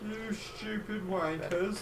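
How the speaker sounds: slow, mock Australian drawl of an insult; bad Australian accent. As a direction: ham up a clumsy Australian accent. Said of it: "I have the worst accent, so it's just Australian".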